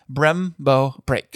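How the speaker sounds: slow, spelled-out Brembo brakes; slow and deliberate. Shown as a demonstration. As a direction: say "Brembo brakes" very slowly, word by word. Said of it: "can you break that down for me".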